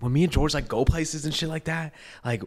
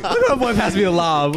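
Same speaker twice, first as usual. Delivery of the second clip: higher, excited retold cheer; elated hype; 6 semitones higher, 4 dB louder than usual. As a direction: crow about your friend's assist. Retold elated reaction, laughing.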